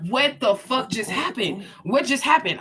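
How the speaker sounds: slow, high, stunned disbelief. Retold or imitated. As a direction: drag it out as if still in shock. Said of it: "And I was like".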